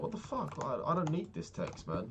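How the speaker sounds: mock outrage at the sister's text; incredulous. Brother reacting to his sister's rude text, high incredulous outrage. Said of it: "in my head, I was like".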